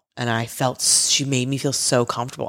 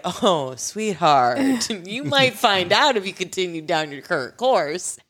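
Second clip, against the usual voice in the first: imitating a knowingly amused dom; lightly chuckling, teasing veiled warning; dark amusement; 4 semitones higher than usual. Dom to a curious newcomer, darkly amused. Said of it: "the dom chuckles just like that. It is a dark, unadulterated".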